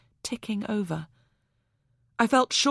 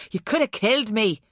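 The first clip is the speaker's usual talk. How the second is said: angry Irish man, louder, lightly voiced; strong Irish accent; 2 semitones higher, 4 dB louder, faster than usual. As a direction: scold her in a broad Irish accent. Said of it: "his Irish accent strong".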